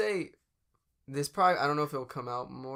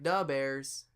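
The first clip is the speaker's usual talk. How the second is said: lightly imitated Chicago-Wisconsin accent; a hint of Wisconsin in a Chicago accent; mock Midwest accent. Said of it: "almost Wisconsin".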